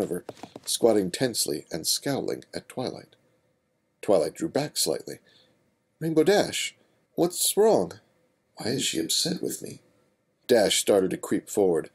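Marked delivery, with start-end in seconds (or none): 6.0-9.8 put-on higher, puzzled young female voice; worried and confused; young mare voice. Twilight confused.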